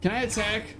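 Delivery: ordinary talk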